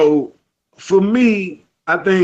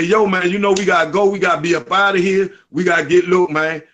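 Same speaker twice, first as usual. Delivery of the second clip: straight Southeast DC street dialect; faster than usual. Shown as a demonstration. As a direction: road manager rallying the band in Southeast DC talk. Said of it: "I was on some straight Southeast dialect".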